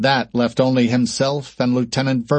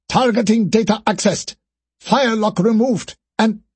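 triumphant report; 10 semitones higher than usual. Acted. Okoro reports success.

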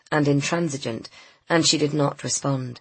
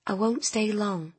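calm; 5 semitones higher, 5 dB quieter than usual. A narrator's reading. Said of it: "said Nina in a calm tone".

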